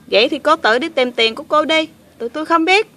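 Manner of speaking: offended refusal. Pretend. Helpers telling ungrateful girl to search alone, huffy. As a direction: throw it back at the accuser.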